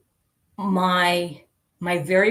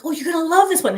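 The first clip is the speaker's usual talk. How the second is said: teasing promise; 11 semitones higher, 5 dB louder, much faster than usual. Retold or imitated. Teasing friend in retold chat.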